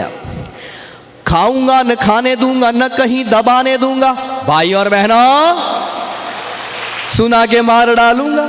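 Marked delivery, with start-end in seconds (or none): 1.3-8.5 kavi sammelan recitation. Acted. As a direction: recite each line with relish, stretching the words. Recites satirical poem to audience. (मंच पर कविता पाठ का धीमा, खिंचा हुआ अंदाज़)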